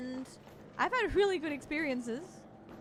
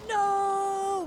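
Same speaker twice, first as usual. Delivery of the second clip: sudden loud cry of dismay; dismayed shout; 7 semitones higher, 8 dB louder than usual. Real, not acted. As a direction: yell out a sharp no. Teammate downed, cries out.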